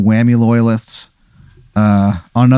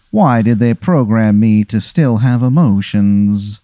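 slow, lamenting robot question; lightly voiced cyborg; slower than usual. Cyborg self wondering slowly why he still has feelings. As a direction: ask it slowly, a touch pained. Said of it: "and he goes".

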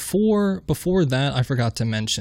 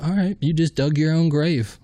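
higher, tough gangster menace; Al Pacino impression; 5 semitones higher than usual. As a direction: threaten like a movie mobster. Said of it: "like the Al Pacino".

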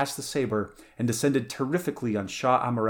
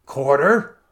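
loud, rising outraged question; frenzied disbelief; 4 semitones higher, 10 dB louder than usual. A narrator's reading. Stranger refusing his enemy mercy, frenzied question. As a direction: throw the word back, pitch climbing. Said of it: "There was a quiver of frenzy in the stranger's voice".

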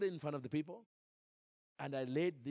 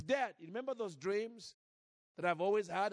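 put-on little girl voice; 4 semitones higher than usual. Brooke asks her father.

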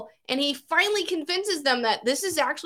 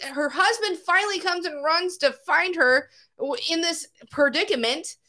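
ordinary talk

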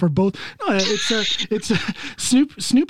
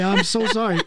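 choking on coffee. Real, not acted. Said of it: "coffee that went down the wrong way".

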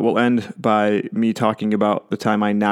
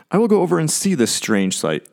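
high opening sliding down, as Moses; Moses marvelling; 6 semitones higher than usual. Acted. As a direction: voice Moses' curious thought aloud. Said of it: "I always wonder if that's how he says it".

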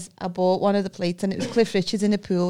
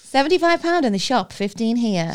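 higher mock sales pitch; mock market seller; 4 semitones higher, 3 dB louder than usual. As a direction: flog it like a stallholder.

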